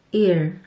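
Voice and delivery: ear said short and plain, like Korean 이; quick clipped ear. Shown as a demonstration. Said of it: "첫 번째 단어".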